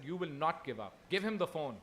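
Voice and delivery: mother ordering her son on the phone; mother's order. Retold or imitated. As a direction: insist like a stern mother. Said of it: "and she said".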